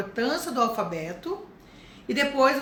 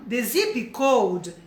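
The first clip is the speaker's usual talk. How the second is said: very slow, clear dictation; slow model answer; much slower than usual. Shown as a demonstration. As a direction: dictate it slowly. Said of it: "vai explicar pra ela".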